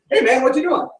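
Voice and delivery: high-pitched Southern greeting; Southern accent. Retold or imitated. Preacher re-enacts hailing the boy for the congregation, Southern accent. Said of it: "say it like that with a Southern accent".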